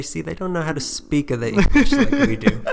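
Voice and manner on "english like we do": lightly put-on Valley Girl accent, a bit higher; a touch of Valley Girl, half laughing. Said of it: "that traditional Valley Girl accent slipping out of me".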